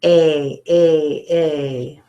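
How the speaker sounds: short "a" repeated; 重复短音"a". Shown as a demonstration. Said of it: "circle the one that goes".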